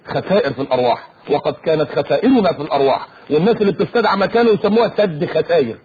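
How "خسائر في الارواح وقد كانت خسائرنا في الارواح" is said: low, solemn announcer tone; mock official phrase. Mocking the official phrasing of martyrs. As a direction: intone it like a news bulletin. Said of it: "ويسموه ايه".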